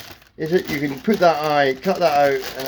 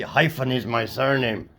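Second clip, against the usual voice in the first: character voice. Acted. Character says his name.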